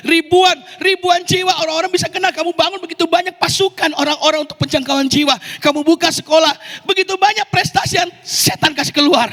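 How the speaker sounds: devil's voice. Retold or imitated. The devil tempting the pastor, a light coaxing voice. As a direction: needle him like a flattering devil. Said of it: "suara setan".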